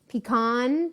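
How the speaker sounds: "pecan" said pee-KAHN; pee-con pronunciation. Shown as a demonstration. Cook reporting what northerners say, "pecan" as pee-kahn. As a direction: end "pecan" with an open ah, KAHN. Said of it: "a lot of northerners will say".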